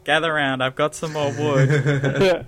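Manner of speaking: booming smug god voice; dark lord. Retold or imitated. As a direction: gloat like a god over a woodpile. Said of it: "I just feel like a god".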